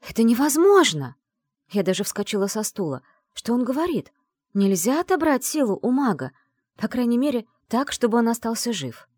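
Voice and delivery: protest, jumping up; agitated protest. Acted. Героиня вскакивает в возмущении. (взволнованно и громко, выше обычного)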